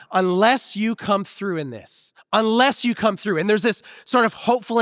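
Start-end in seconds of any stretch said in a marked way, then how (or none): 0.1-2.1 slow, drawn-out plea to God; slow pleading. Retold or imitated. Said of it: "when I think". 2.3-3.4 pressing repeat. Retold or imitated. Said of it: "when I think".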